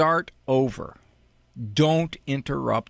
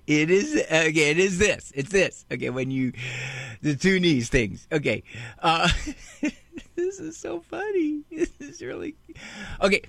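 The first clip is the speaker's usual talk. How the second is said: put-on giggling kid. Kid giggling before punchline.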